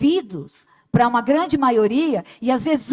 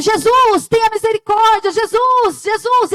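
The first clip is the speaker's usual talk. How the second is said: loud put-on shout in a raised voice; 9 semitones higher, 4 dB louder than usual. Retelling a bible story, the speaker acts out a man crying to jesus: retelling a shout. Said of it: "E ele gritava de novo".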